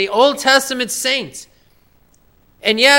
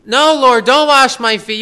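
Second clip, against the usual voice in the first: louder emphatic protest as Peter; 3 semitones higher, 5 dB louder than usual. Retold or imitated. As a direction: push back hard, voicing Peter. Peter protesting foot washing.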